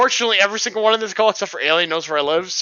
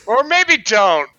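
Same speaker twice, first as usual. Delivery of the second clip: slow, louder deadpan repeat; slow deadpan echo; 3 semitones higher, 4 dB louder, much slower than usual. Pretend. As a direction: drag the joke out slowly. Repeats joke slowly.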